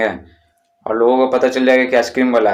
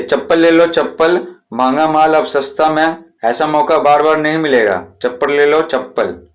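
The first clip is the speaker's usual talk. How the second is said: slipper seller's call. Shown as a demonstration. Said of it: "इस तरह से चिल्लाएंगे।".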